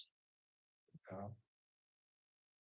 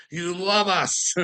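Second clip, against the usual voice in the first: slow, higher, smug villain voice; mock gloating villain; 6 semitones higher, slower than usual. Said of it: "behind the scenes going".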